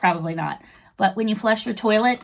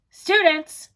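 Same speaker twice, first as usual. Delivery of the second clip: loud, raised teacher call to the class; 7 semitones higher, 6 dB louder than usual. A narrator's reading. Teacher Mister Plunkett calling the students to attention, loud. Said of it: "said Mister Plunkett".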